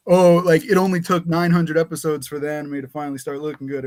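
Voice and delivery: mock sarcastic. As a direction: do a sarcastic fan's complaint. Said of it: "sarcastic about it, like".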